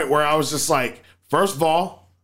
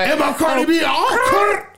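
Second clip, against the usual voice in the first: laughing shout; 11 semitones higher than usual. Real, not acted. Joking with friends about acting like a rapper, a high laughing shout.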